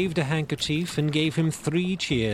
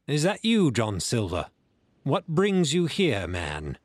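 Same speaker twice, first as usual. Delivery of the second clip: gruff captain. Acted. Captain speaks to Jim, Silver.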